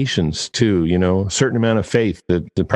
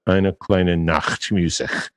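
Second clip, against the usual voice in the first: bad German accent; slower than usual. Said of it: "Pardon my bad German accent".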